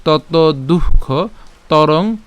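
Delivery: slow, deliberate repeat-after-me recitation; joined-up recitation. Shown as a demonstration. Teacher putting the whole pronunciation together, slow measured drill. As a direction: drill each verse phrase slowly, pausing between. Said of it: "পুরোটাই উচ্চারণ আমরা যদি একসাথে করি".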